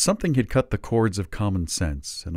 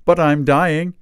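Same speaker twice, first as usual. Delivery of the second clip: reassuring; 9 semitones higher, 9 dB louder, slower than usual. A narrator's reading. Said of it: "he hastened to add reassuringly".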